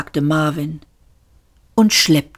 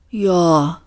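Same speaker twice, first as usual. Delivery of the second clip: mild, moved admission; understated, drawn-out yes; touched. A narrator's reading. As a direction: concede it with a touch of emotion. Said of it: "gab Marvin mit Rührung zu".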